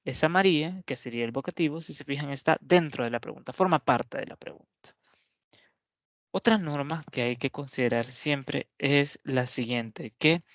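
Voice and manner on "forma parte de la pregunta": whispered aside. Real, not acted.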